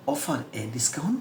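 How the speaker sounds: very slow, each word apart; slow, plain classroom English; slow simple English. Shown as a demonstration. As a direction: say it slowly the easy way. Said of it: "আস্তে আস্তে বলেছি".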